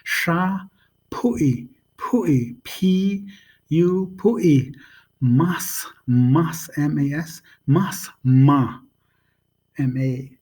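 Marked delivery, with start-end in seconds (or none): 0.0-8.8 "Sha", "Pui", "Mas Ma" sounded out one by one; syllable-by-syllable pronunciation. Shown as a demonstration. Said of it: "like an S H sound".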